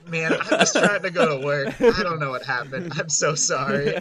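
light laughing plea; laughing apology. Retold or imitated. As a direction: apologise while cracking up. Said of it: "And I was like".

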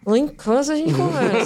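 through clenched teeth, lips barely moving; gritted teeth. Shown as a demonstration. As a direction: say it without moving your mouth. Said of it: "com os dentes cerrados, sem manifestar?".

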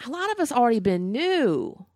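a hushed unvoiced whisper. Real, not acted. Confiding to her cohost in a hushed whisper. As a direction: lean in and whisper it.

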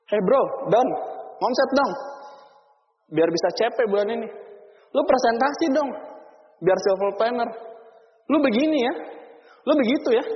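a hint of a nagging upline boss; bossy upline. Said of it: "sering ngomong". (upline menyuruh downline, nada menyuruh)

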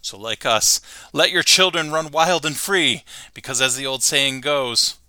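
lightly voiced Homer lecturing; Homer speech. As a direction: preach American freedom, lightly voiced. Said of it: "he says".

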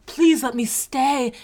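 slow, high mock pleading; hammed-up grovelling plea; grovelly. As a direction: beg pitifully, imitating a desperate contestant. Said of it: "a little too grovelly".

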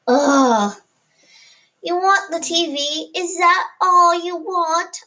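annoyed. Acted. Annoyed sibling quarrel.

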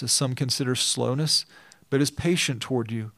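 measured, even reading of scripture. Acted. Preacher reading scripture aloud to the congregation, measured. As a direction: read the passage steadily to the church.

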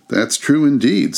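high eager agreement; eager laundress. A narrator's reading. Laundress agreeing with the charwoman, high and eager. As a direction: chime in quickly.

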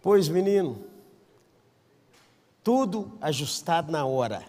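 normal talking voice

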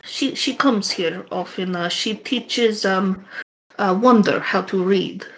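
put-on NPC with a light Russian accent. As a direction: village woman in a mild Russian accent. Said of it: "I don't think I have much variation in my Russian accent".

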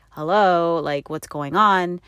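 imitating an impatient, slowed challenge; retold mild exasperation; not-so-nice tone. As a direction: drag it out like a mild "wake up". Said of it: "No, I was kinda like".

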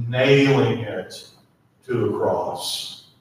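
slow, weighty reading of scripture; solemn scripture read with long pauses; dramatic scripture reading. Acted. Reads scripture aloud dramatically.

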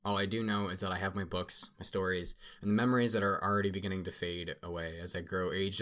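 measured storybook narration; story narration. A narrator's reading. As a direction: read it aloud like a wistful memoir. Reads the story aloud.

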